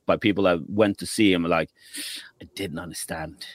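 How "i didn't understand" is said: whispered quote; whispered complaint. Retold or imitated. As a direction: breathe it like a confused viewer. Quoting complaining audience.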